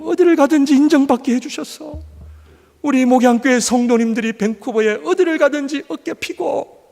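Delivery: high, loud pleading prayer; fervent prayer. Acted. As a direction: cry out to God for the congregation. Leads a model prayer. (성도를 위해 외치는 뜨거운 기도)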